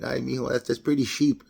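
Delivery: put-on light Mexican accent, cheap said as sheep; mom's Mexican accent. Son quoting his mom saying food is cheap, gentle Mexican accent. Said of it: "My mom says like that".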